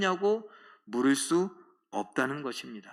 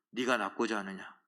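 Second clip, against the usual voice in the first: low, soft asking voice; gentle question; 8 semitones lower, 8 dB quieter than usual. Acted. Jesus softly asking the sick man if he wants healing. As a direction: ask it softly like a kind master.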